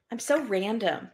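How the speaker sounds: lightly voiced quirky girl; mock the self-proclaimed weirdo; quirky girl impression. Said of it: "that's my impression of".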